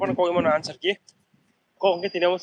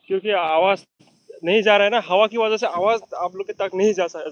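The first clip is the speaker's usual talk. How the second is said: raised voice; 3 semitones higher, 5 dB louder than usual. Real, not acted. Speaking up over the wind.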